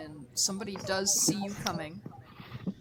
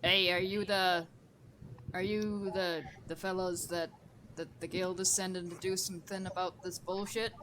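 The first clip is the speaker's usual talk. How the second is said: put-on gruff old fisherman. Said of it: "it's like a grizzled old fisherman goblin".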